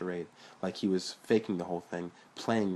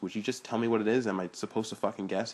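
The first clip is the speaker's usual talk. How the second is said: sarcastic; 2 semitones higher than usual. Acted. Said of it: "he asked sarcastically".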